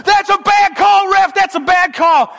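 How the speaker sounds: high, slow, loud mock heckle; shrill mocking chant of angry fans; mocking rowdy fans. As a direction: ham up the whiny sideline parents.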